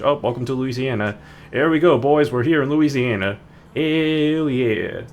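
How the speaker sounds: loud, hammed-up Louisiana Cajun accent; playful Cajun accent. Streamer greeting Louisiana on arrival, mock Cajun accent. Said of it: "I don't know what accent I'm making".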